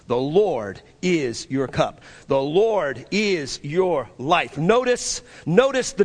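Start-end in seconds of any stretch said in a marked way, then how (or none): 0.1-4.6 tender declaration. Acted. Preacher's slow tender declaration.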